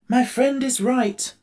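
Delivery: high and slow, a steady tin man agreeing; Tin Woodman voice. A narrator's reading. Tin Woodman backing up the Scarecrow, high and slow. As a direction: lift it high and take it slow.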